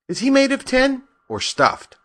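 very high, curious questioning voice; puzzled lion. A narrator's reading. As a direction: inquire in a high-pitched wondering tone. Puzzled lion asks about Toto.

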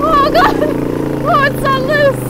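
nervous excitement. Real, not acted. Struggling up the steep hill.

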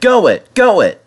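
high, loud urging; shouting encouragement. A narrator's reading. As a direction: egg him on. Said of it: "they shouted".

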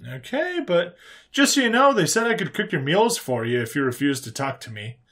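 lightly voiced human, starting high; casually threatening human. Human warning the silent prisoner about meals, casual.

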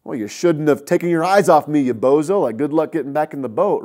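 a lightly voiced, scornful Jesus, the last words quick; mock ridicule. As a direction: tease him for sinking, like a bully. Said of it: "Ridicule him?".

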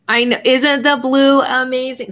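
gushing too loud into the microphone over the blue; excited near-yell. Real, not acted. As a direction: burst out with delight, a bit too loud. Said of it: "I'm yelling in the microphone".

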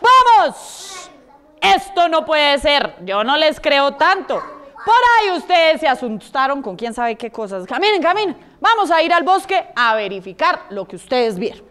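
lightly acted resolute hen; firm, no-nonsense urging, lightly voiced; brave mother hen. Mother hen leading chicks to the forest, mildly brave. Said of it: "muy valiente".

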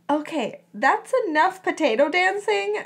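mildly exasperated declaration; firm declaration. A narrator's reading. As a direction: put an end to it brightly. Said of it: "Melody declared".

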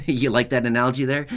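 laughing at own little joke; real chuckling. Real, not acted. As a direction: chuckle through it, amused at yourself. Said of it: "I'm laughing because it's".

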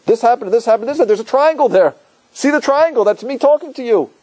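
high, emphatic build of proof; acted insistent revelation. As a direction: press the point home excitedly, as a role. Voices God pointing out patterns.

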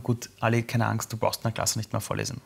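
calm a scared pupil, quietly; reassuring teacher. Retold or imitated. Teacher comforts stuttering pupil.

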